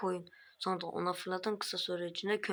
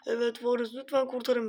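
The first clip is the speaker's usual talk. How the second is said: pleading villager; 4 semitones higher, 4 dB louder than usual. Acted. Villagers upstairs begging.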